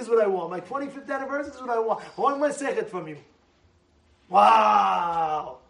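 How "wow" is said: low, loud exclamation; loud wow. Real, not acted. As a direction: burst out in amazement.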